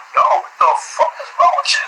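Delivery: high, airy mock exasperation; people yelling back. Friends react to his sudden explosion, high mock exasperation. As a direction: squeak it out like baffled onlookers. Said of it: "people are like".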